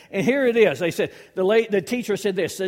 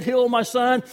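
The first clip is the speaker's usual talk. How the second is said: loud plea; 4 semitones higher, 5 dB louder than usual. Acted. Father's loud demand to disciples.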